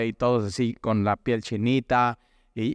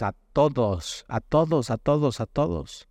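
反复强调"a todos"，一次比一次高; stress on todos. Acted. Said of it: "dice Lucas".

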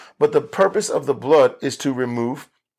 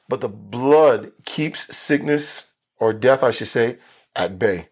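slow, deliberate emphasis on the claim; drawn-out, deliberate teaching delivery; very intentional; slower than usual. Real, not acted. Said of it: "I'm saying that very intentionally".

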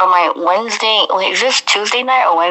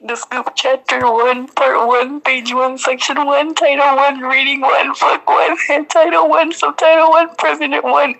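building excitement; 5 semitones higher than usual. Acted. Building list of titles.

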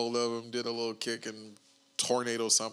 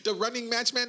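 laughing shout; 9 semitones higher than usual. Real, not acted. Laughing outburst.

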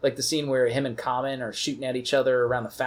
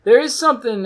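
into a fan; 8 semitones higher, 8 dB louder than usual. Real, not acted. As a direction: voice warbled through fan blades. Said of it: "it sounds cool if I talk into the fan".

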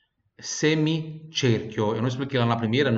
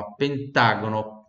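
pentágono in a slow Italian accent; 2 semitones lower, slower than usual. Shown as a demonstration. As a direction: drag out pentágono like an Italian grandpa. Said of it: "puxar aquele sotaque italiano do nono".

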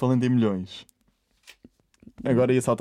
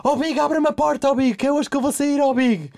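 Quinás; 13 semitones higher, 4 dB louder than usual. Retold or imitated. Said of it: "E o Quinás assim".

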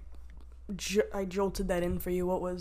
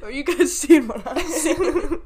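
slow, loud, slurred and laughing; slurring drunk; 6 semitones higher, 8 dB louder, slower than usual. Pretend. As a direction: play it like you're wasted. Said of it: "You're slurring your words".

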